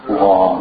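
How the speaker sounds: GHA with a rounded, heavy vowel; thick GHA. Shown as a demonstration. Teacher confirming the thick letter, heavy gha. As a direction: say gha full and back. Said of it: "That's the thick one".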